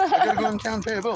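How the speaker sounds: rattled off fast through a laugh; laughing repeat. Retold or imitated. Retelling the ex's excuse to the host, laughing fast. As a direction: repeat it quickly, laughing at the impression.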